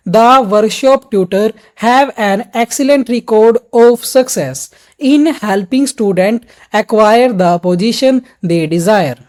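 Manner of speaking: very slow, each word broken apart. Shown as a demonstration. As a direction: read it choppily, one word at a time. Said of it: "कभी भी ऐसे तोड़ तोड़ के हम नहीं बोलेंगे". (एक-एक शब्द तोड़ तोड़ कर, बहुत धीमे)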